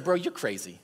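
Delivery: imitating a scornful skeptic; retold scoff in a casual register; sarcastic scoffing. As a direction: brush him off with mild mock disbelief. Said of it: "it's just like sarcasm and, and scoffing".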